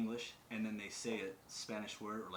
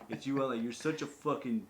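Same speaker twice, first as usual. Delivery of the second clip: louder, scornful imitation of a critic; mocking hater; 2 semitones higher, 4 dB louder than usual. Critics sneering at his Pidgin in Hawaii, mocking. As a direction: call out a poser, hammed up. Voices haters of the speaker's argument.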